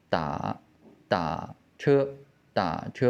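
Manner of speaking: "Da" kept low and falling, no rise back up; low dipped "Da" without its rising tail before "che"; half third tone. Shown as a demonstration. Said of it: "the first half of the third tone".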